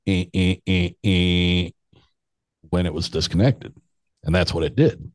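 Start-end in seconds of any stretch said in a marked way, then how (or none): 0.1-1.7 dial tone imitation. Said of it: "and then it would go".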